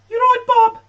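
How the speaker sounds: loud, very high mock Brummie; bad Birmingham accent. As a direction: call it out in a fake Birmingham accent. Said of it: "I can't do a fucking Birmingham accent".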